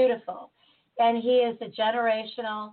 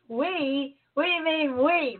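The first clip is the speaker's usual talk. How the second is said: higher, mock-indignant question; surprised; 5 semitones higher, slower than usual. The speaker questioning the doctor's we, hammed-up surprise. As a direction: replay the startled pushback on we, pitched up. Retelling her own indignant reply.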